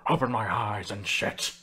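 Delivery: deadpan mock. Mocking his own gushing quote.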